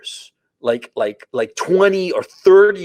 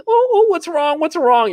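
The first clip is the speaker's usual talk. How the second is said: high, squeaky worried dog voice; dog's voice; 13 semitones higher, 4 dB louder than usual. Retold or imitated. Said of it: "the dog is like".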